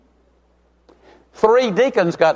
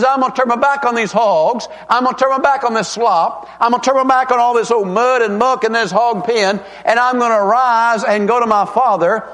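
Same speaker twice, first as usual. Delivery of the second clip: resolved prodigal son; 4 semitones higher than usual. Retold or imitated. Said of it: "he comes to himself".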